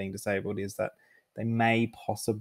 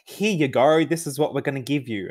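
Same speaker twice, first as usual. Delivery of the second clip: higher, louder imitation of an eager announcement; excited mock response; 5 semitones higher, 5 dB louder than usual. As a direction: mimic their over-excited reply, pitched up and loud. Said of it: "the response was so excited".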